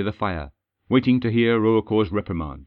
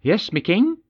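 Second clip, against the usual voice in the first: called back high and loud, annoyed; loud annoyed reply; 9 semitones higher than usual. Acted. Nazed shouting back at her king, annoyed and loud. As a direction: snap back just as loudly as she was called. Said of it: "she said just as loudly".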